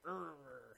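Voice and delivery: mock angry "urgh"; mean growl. Co-host joking about what mean time is, mock growl. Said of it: "Maybe it's mean like".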